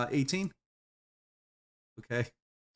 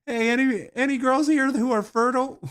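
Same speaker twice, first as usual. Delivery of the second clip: mock call out; 7 semitones higher, 4 dB louder than usual. Jokingly calling out to girls.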